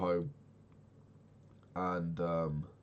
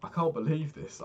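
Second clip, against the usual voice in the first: much higher, louder disbelief; amazed; 10 semitones higher, 5 dB louder than usual. Real, not acted. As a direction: gasp it out in awe. Reacts to game find.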